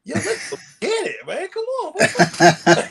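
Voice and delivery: high, loud, laughing pep; hyped-up crowd greeting. Retold or imitated. Wrestler greeting festival fans, high and pumped. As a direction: pump up the fans.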